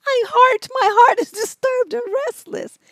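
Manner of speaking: high, mocking sing-song of her complaint; mocking whiny voice. Host mocking the letter writer's words, high and whiny. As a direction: pitch it way up, ridiculing her.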